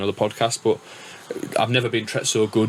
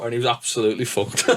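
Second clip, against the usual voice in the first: laughing. Real, not acted. Laughing at a drug story.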